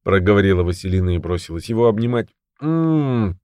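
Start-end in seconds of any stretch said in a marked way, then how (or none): 2.6-3.4 short moan of pain and relief. A narrator's reading. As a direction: moan through the hurt. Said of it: "простонал Сергей".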